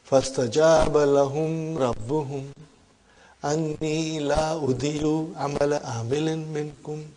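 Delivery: a quick, murmured recitation of the verse; quick Quran recitation. Acted. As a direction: run through the Arabic verse at a brisk pace.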